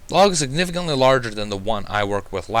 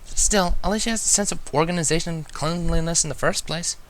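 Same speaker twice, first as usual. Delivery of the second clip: higher, sharp, with a bite on Spike; biting tone; 7 semitones higher than usual. A narrator's reading. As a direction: turn on him with an edge. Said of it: "a bit of a bite to her vo-, tone".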